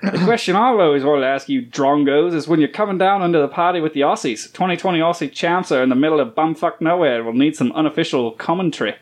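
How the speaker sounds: hammed-up Australian reading voice; Australian accent. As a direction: read it in a broad Australian accent. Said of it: "read this in your best Australian accent".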